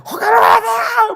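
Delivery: slow, drawn-out shriek at extreme pitch; imitated hysterical, tearful scream; crying, screaming wife. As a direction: wail it at the top of the voice. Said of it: "막, 막 울면서 막".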